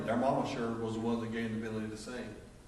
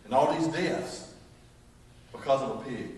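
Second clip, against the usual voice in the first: disbelief; 3 semitones higher, 3 dB louder, slower than usual. Retold or imitated. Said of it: "it will drive you thinking".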